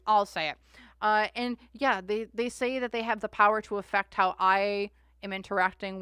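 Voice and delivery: preachy rant. Real, not acted. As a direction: lay into the politicians. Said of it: "I'm gonna stop my preaching".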